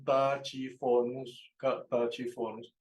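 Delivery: "Tachyphonus" with ch as in Spanish; naive pronunciation. Shown as a demonstration. Teacher showing how one might read it, naive pronunciation. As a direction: say "Tachyphonus" as ta-chi-FO-nus. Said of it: "pronunciado uno".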